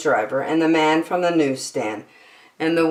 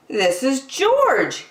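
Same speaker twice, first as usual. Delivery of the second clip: excited shout; 9 semitones higher, much slower than usual. A narrator's reading. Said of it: "he shouted".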